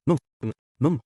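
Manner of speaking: put-on a child's broken cry for mum; tearful calling. Garfield crying in Mimi's arms, tearful pleading. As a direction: call for her through tears.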